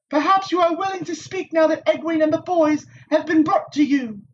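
high, poised noblewoman's voice; composed Aes Sedai. A narrator's reading. Moiraine pressing the Wisdom, cool and high. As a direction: speak down evenly like a knowing sorceress.

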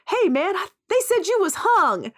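high, lightly voiced ribbing brother; teasing brother. Brother ribbing Bart on the railroad crew, high and teasing. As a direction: pitch it up, mock-impressed railroad buddy. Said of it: "he says".

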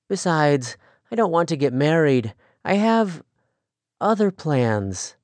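put-on girl rejecting a suitor, mild edge; lightly voiced young woman refusing. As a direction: turn him down firmly. Rachel refuses Daniel.

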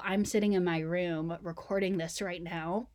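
stuffy, blocked nose; nasal voice. Real, not acted. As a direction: talk through a blocked nose. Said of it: "I'm a little nas-, nasally today".

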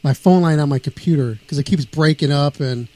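phone audio cutting out; breaking up over the phone; clipped phone line. Real, not acted. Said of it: "you're cutting out".

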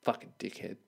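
low, muttered under the breath; father muttering a curse after closing the door; muttered insult. Retold or imitated. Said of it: "I just go".

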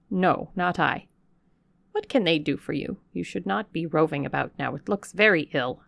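a hint of a stern old servant refusing; scolding servant. Servant refusing the vagrant, mildly scolding. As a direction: brush her off with a scold.

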